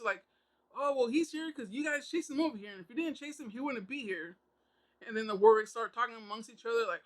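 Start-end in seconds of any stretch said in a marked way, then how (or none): 0.7-4.4 lightly voiced arguing kid, pitched higher at first; mock kid argument. Kids arguing over who chased him here, lightly mocked squabble. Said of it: "they kinda have, like, kid arguments".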